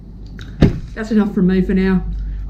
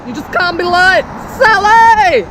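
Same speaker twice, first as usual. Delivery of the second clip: high, loud mock telling-off of Sally; hammed-up scolding shout; 11 semitones higher, 5 dB louder than usual. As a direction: scold Sally like a fussy mum. Repeated scolding.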